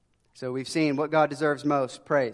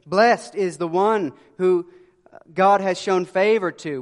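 emphatic preaching; 3 semitones higher, 7 dB louder, slower than usual. Real, not acted. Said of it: "preaching emphasis".

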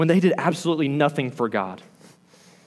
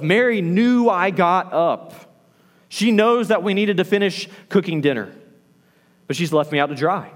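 mildly frustrated inner complaint, higher at first; mounting frustration; 3 semitones higher than usual. Acted. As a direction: act out a resentful grumble. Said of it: "Martha's frustration grows more and more".

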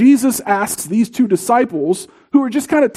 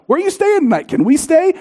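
eager disciples; 6 semitones higher than usual. Retold or imitated. Eager disciples voiced in sermon.

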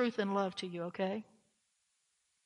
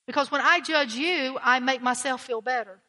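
louder preaching; 6 dB louder than usual. Acted. Emphatic preaching.

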